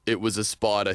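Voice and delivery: low, sheepish admission. A narrator's reading. Man confessing to police about a spider, sheepish. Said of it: "starts to look a little sheepish".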